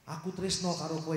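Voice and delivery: a mild wayang-style delivery; Javanese love line. Acted. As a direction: lightly voice a Javanese confession. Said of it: "Ngerti nggak bahasanya? Kayak wayang ya". (Inem menyatakan cinta dalam bahasa Jawa, agak gaya wayang)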